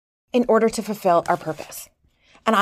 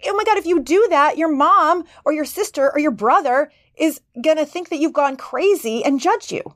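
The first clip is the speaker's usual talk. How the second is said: panicky inner voice; 5 semitones higher than usual. Pretend. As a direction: voice the nervous system fretting, raised and urgent. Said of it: "It's amping up going".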